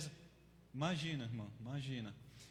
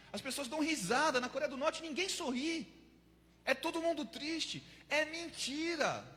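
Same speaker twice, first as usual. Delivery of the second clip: excited realization; 5 semitones higher, 3 dB louder than usual. Acted. Prisoner realizes the propaganda lies.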